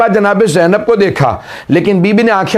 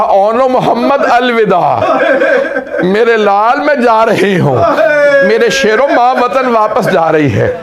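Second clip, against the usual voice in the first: mournful farewell; 4 semitones higher than usual. Acted. Mother's last farewell at graves.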